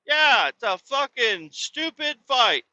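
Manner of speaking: high, drawn-out mocking girl voice; imitating a girl dismissing the fight; scornful girl. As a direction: sneer it like a bored teen girl. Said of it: "the girls over there are like".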